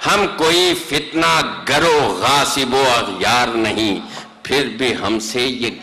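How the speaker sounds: measured mushaira recitation; stately nazm recitation. Acted. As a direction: declaim each line with weight. (مشاعرے کی نظم خوانی)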